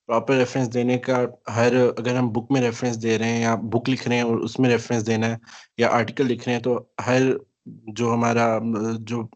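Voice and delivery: choppy, dropping-out call audio; breaking up space radio. Real, not acted. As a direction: voice cutting in and out. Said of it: "आपकी आवाज़ कट रही है".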